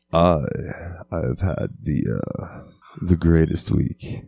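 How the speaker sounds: lightly put-on sultry delivery; sexy voice. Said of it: "you have to do it in the sexy voice".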